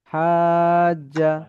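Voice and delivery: "হাজ্জা" sung slowly with a long held vowel; slow chanted "হাজ্জা"; drawn-out recitation. Shown as a demonstration. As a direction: stretch "হাজ্জা" out like Quran recitation. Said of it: "এমন".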